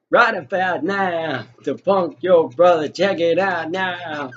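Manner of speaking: slow, hyped DJ intro voice; a hint of a cheesy DJ; mock radio DJ. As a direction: drop a lazy radio host shout-out.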